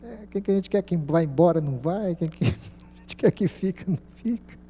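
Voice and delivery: mild grumbling. Retold or imitated. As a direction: imitate someone complaining a little. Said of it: "reclamando um pouquinho".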